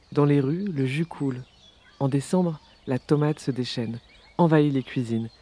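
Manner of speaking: measured poetry reading, phrase by phrase; poem reading. Acted. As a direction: read the poem evenly, pausing between lines. Reads the translated poem aloud. (lecture de poème posée)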